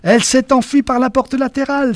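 high excited call-out; echoing cry. A narrator's reading. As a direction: shout the news along. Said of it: "s'écria quelqu'un en écho".

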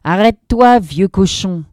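high, loud nasty yell; shouting girl. A narrator's reading. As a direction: scream at the old man to stop. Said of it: "une bouche large qui criait".

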